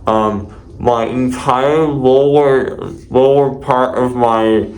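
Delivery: numb jaw, gauze in mouth; muffled. Real, not acted. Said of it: "this is the way I have to speak now".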